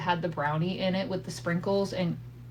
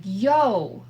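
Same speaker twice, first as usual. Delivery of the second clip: raised exasperated voice; exasperated wife hollering at her husband to listen; 2 semitones higher than usual. Retold or imitated. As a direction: call out to him, fed up and overwhelmed. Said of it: "And I holler out".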